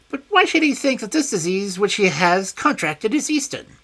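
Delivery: high, loud wary voice; high guarded villain; high suspicious question. A narrator's reading. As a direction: probe what Holmes wants. Smith probing.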